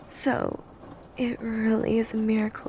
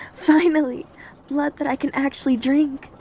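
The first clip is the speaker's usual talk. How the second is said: excited; 2 semitones higher, 4 dB louder than usual. Acted. Starved vampire to her victim, eager and excited. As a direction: let the starving hunger break out.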